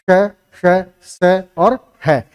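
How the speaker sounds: slow, separate "श, श, स" and "है"; "श", "स", "है" sounded out with pauses; pronunciation demo. Shown as a demonstration. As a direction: model each sound for learners, "श" hissed, "स" relaxed. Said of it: "ये इसका उच्चारण रूप होगा".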